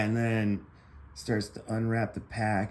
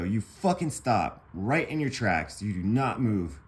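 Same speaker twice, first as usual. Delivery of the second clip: firm command; 2 semitones higher, 3 dB louder than usual. Retold or imitated. Teller ordering a friend not to run, firm command. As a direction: lay down a firm order, word by word.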